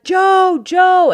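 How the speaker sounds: high, loud greeting holler; loud, high-pitched hail; excited calling out. Retold or imitated. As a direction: holler the name to a pal across a party. Friend greets Joe at party.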